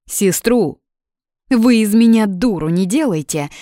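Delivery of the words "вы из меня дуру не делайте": high, loud indignant outcry; indignant outburst. Acted. Blonde blowing up at the siblings, indignant. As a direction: blow up at being fooled. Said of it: "взвилась блондинка".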